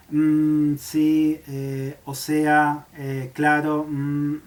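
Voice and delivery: halting, unsure filler sounds with pauses; hesitating fillers. Shown as a demonstration. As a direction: stall as if you can't find the next word. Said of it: "y me quedo vacilando".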